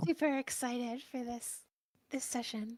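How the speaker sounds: very quiet low-energy voice. Asked how she is before the session, answering in a very quiet low-energy voice. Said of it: "I can still barely hear her".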